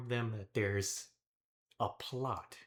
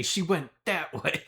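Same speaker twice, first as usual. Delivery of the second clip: innocent guard voice; 7 semitones higher, 7 dB louder than usual. Pretend. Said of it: "turn back into the guard, and say".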